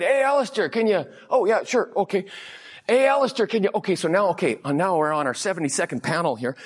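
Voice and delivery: high, calling neighbor voice. Retold or imitated. Neighbors calling out to Alistair over the fence, high. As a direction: call him over like a neighbor.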